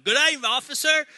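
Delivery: loud, high, broad Australian greeting; thick Australian accent. Retold or imitated. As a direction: imitate a buddy's over-the-top Australian accent. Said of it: "puts on the thickest Australian accent".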